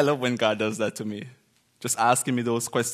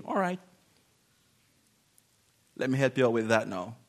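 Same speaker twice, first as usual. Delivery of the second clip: loving; 2 semitones lower, 4 dB quieter, faster than usual. Retold or imitated. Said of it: "and then lovingly say".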